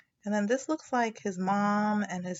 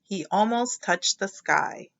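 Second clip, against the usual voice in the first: slow, louder build; dramatic slow read; 7 dB louder, slower than usual. A narrator's reading. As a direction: stretch it out as he swings.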